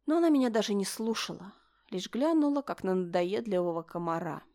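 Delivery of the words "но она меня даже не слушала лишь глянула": usual speaking voice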